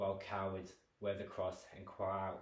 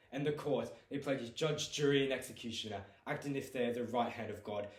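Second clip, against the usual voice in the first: angry disdain. Acted. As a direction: spit contempt at the court. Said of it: "to anger and disdain".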